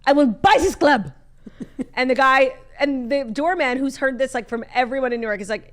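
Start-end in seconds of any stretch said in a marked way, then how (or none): 0.1-1.1 louder, slowing on the repeat; hammed-up rich kid threat; mock drunk heir. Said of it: "And he was like".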